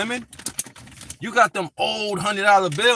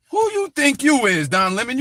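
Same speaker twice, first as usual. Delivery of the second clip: indignant challenge; 6 semitones higher than usual. Real, not acted. Confronting Don Lemon.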